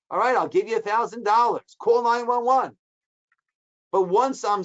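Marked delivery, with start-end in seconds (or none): 0.1-2.8 urgent plea. Pretend. Injured man begs the passerby, fast and urgent. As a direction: beg fast for the call.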